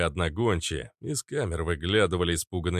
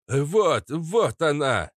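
loud, higher excited cry; eager pitched-up shout; Papasha Katz; 7 semitones higher, 4 dB louder, much slower than usual. A narrator's reading. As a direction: call out the moment you spot her. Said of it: "крикнул папаша Кац".

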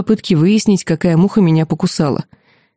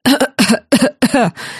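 надсадный кашель; прокашляться, будто горло обожжено; 6 semitones higher than usual. A narrator's reading. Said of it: "Прокашлялась и просипела". (надрывно прокашляться)

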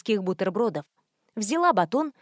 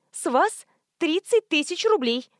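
higher, put-on woman's voice; squeaky woman voice; 6 semitones higher than usual. Prankster demanding money in a fake woman voice, high. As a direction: play the prank caller's squeak.

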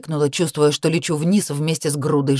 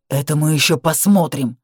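barked retort. Acted. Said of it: "рявкнул он".

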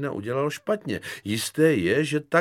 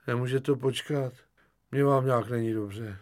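unhappy lieutenant; 2 semitones higher than usual. Acted. Lieutenant putting off Kefalín, unhappy and unwell. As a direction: plead feebly to be left alone. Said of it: "Poručík se na něho podíval nešťastně".

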